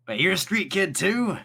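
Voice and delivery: surprised. Acted. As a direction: voice jumps up in surprise. Cyril surprised, pitch jumps.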